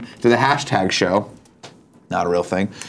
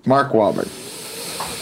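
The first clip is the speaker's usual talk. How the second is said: very slow, softer, weighty name drop; dramatic reveal; 5 dB quieter, much slower than usual. Acted. Revealing the rumored star to his co-host, slow mock-dramatic. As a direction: let the name land like a punchline.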